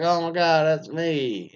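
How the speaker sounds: a hammed-up cry of alarm; mock horrified gasp. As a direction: play the wife realizing in shock. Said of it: "and then she's like".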